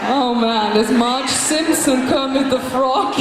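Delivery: creaky fried voice; crackling creaky demo; vocal fry. Shown as a demonstration. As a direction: rasp it like Kermit. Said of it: "That is vocal fry".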